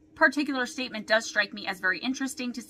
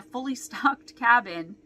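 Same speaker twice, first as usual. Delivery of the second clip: laughing through the words at the absurdity; laughing in disbelief; slower than usual. Real, not acted. Podcaster finding the kidnapping theory ridiculous, laughing as she talks. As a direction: let an incredulous laugh break into it. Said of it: "I'm laughing because it's ridiculous".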